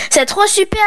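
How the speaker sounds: high delighted cry; thrilled, bursting out; excited exclamation. Acted. Isalia thrilled about the pearl, high and delighted. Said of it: "s'exclama Isalia".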